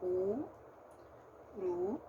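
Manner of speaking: slow, one syllable at a time. Shown as a demonstration. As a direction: break the word into its syllables. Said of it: "vamos lá".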